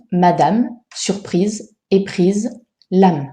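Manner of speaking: final E dropped in "Madame, surprise, éprise, l'âme"; silent final E. Shown as a demonstration. Teacher showing a line-end rule, final E of "Madame, surprise, éprise, l'âme" silent. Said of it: "les E placés en fin de vers ne comptent pas".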